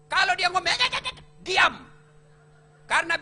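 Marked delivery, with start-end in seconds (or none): 0.7-1.7 high, meek yes-yes of a cowed husband. Retold or imitated. Husband giving in to his nagging wife, high and meek. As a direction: nod along higher, giving in.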